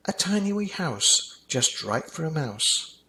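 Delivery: put-on delighted child. Child describes tiny house.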